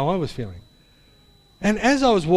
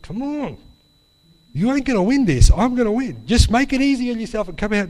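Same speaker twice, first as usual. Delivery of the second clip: louder, higher mock threat to a stuck key; defiant challenge to the key; 7 semitones higher, 4 dB louder than usual. Man fighting a stuck key dares it to win, mock-threatening. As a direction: tell the key who's boss, hammed-up. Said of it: "I wasn't saying it out loud".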